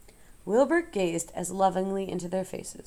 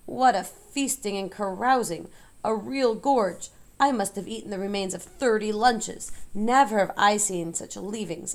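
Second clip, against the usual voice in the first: gloating rat; 2 semitones higher than usual. Acted. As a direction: relish every rotten bite. Templeton gloats over feast.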